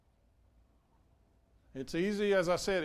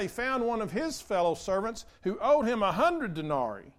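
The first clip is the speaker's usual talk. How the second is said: raised, declaiming reading voice; scripture reading; 3 dB louder than usual. Acted. Pastor reading Jesus' parable to church, declaiming. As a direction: tell the parable to the pews with lift.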